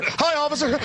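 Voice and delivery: mock fawning. Mocking a fawning citizen.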